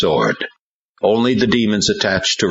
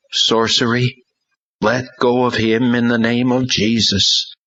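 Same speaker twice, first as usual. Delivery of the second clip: commanding; 7 semitones higher than usual. Acted. Commanding a demon out.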